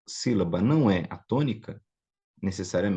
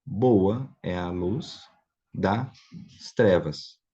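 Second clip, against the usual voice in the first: slow, word-by-word literal rendering; measured demonstration, each piece set apart; literal reading; much slower than usual. Shown as a demonstration. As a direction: read it out slowly with pauses between phrases. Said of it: "você vai ler assim".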